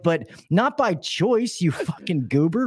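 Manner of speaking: slow, drawn-out incredulous scolding; exasperated scolding. Retold or imitated. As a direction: chew him out in disbelief. Retelling scolding his coworker.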